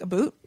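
"a boot" said the Canadian way. Shown as a demonstration. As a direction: say "a boot" for about, Canadian style. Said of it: "The only word that would be different is".

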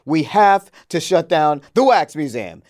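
hammed-up angry British accent; attempted British accent. Mad boss announcing the museum shutdown, attempted British accent. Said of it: "Can you do a British accent?".

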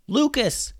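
high-pitched name call; yelling. A narrator's reading. Julian calls giant baby Lucas to battle, yelling. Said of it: "yelled Julian".

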